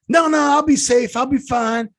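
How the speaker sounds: high, loud mock retort; imitating the mom brushing off the agent; defiant retort. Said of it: "she goes".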